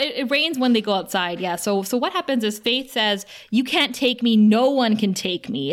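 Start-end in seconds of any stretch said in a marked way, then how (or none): 3.5-5.7 retold yell. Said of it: "is what she yells at him".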